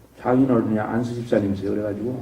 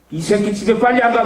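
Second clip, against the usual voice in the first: higher pitched retold yell at the pastor; angry yell; 7 semitones higher than usual. Possessed man yelling at the pastor, higher angry yell. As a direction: bark it out like a possessed man chasing him off. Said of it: "승질을 내고".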